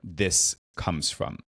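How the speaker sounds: long "oh" falling into slow recognition; retold dawning realization. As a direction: let it click, then slow right down. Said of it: "you could see it click for her".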